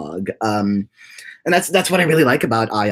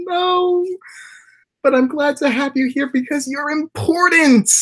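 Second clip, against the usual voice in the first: high put-on squeaky voice, playful protest; squeaky mock voice; slower than usual. Streamer teasing a chatter who ditched her boyfriend, high squeak. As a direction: squeak the protest in a cartoonish falsetto.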